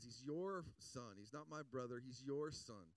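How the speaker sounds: heavy, drawn-out stress on "your"; distancing, leaning hard on "your"; disowning. Acted. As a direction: push him away with the word "your". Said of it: "he distances himself from the family".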